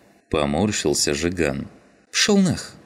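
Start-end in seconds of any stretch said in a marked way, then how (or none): 2.1-2.8 short, high snapped retort; curt brush-off. A narrator's reading. Skinhead curtly brushes off Zhigan, sharp and dismissive. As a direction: cut him off in two words. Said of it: "коротко ответил скинхед".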